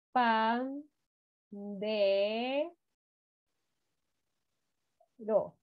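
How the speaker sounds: Pan, de, ro with long pauses between; syllable by syllable. Shown as a demonstration. Teacher writing on the board, slow syllables. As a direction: split the word into its syllables. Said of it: "Ya, miren así".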